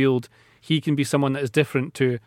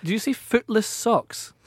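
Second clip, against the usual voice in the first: disbelief; 7 semitones higher, slower than usual. Real, not acted. Incredulous at the odd phrase.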